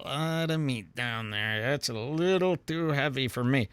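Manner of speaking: quiet half-joking grumble; muttered verdict. Retold or imitated. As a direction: murmur it under your breath while scrolling. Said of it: "I'm going".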